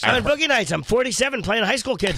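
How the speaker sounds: John C. Reilly voice. Acted. Comedian keeps the movie character going, lightly voiced. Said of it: "Frank Caliendo doing Burt Reynolds in Boogie Nights".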